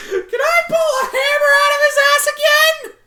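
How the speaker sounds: put-on very high, loud, cackling child voice; giddy filly shrieking with excitement; squeaky excited filly cackle.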